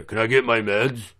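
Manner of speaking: mild mock inmate, pressing harder; pushy inmate. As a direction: repeat the demand, barely voiced. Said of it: "some other motherfucker walks up and goes".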